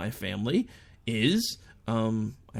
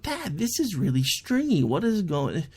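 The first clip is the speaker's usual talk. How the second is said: put-on kid voice; 5 semitones higher than usual. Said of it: "was like".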